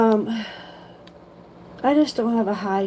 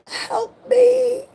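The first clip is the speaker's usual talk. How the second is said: much higher, crying help me; crying plea. Retold or imitated. To her niece in the dark, crying for help. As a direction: whimper it out, near tears. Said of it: "looking at my niece like".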